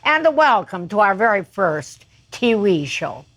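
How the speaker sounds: lightly imitated bandleader, every B said as a P; a touch of the bandleader's German accent, B turned into P; a famous TV bandleader's accent. Singer mimics the bandleader's TV welcome, light German accent. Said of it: "Every B was a P".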